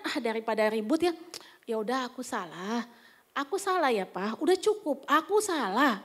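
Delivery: retold half-hearted concession; grudging apology. Wife avoiding a fight with husband, grudging apology. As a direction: give in reluctantly to close the matter. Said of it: "saya nggak ikhlas minta maafnya".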